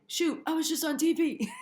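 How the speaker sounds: giddy laugh at her own surprise; amazed laugh at having just been on TV; laughing disbelief. Real, not acted. Laughing realizing she was on TV.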